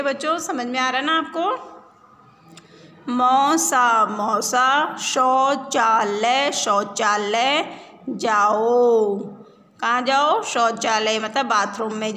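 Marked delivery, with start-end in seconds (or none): 3.1-9.2 slow, chanted reading with repeats; sing-song reading. Shown as a demonstration. Teacher chanting a reading line for pupils. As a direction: chant it slowly so children repeat. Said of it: "reading drill with the class".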